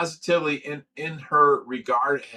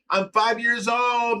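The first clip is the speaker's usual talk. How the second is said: retold yell; 9 semitones higher, slower than usual. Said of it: "I yelled out the car".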